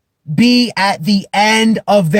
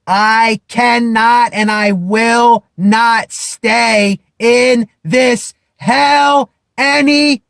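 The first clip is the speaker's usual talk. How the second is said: slow, raised, deliberate vow; determined vow; 4 semitones higher, slower than usual. Acted. To himself at rock bottom, a slow rising vow. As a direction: declare it slowly to yourself, building up. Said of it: "people think I might be yelling at them".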